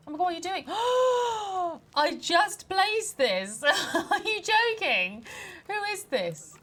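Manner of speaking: high, loud, gasping indignation; loud, incredulous protest with a gasp; outraged disbelief. Real, not acted. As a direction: cry out aghast, stretching the words. Outraged at someone wrecking just-placed item.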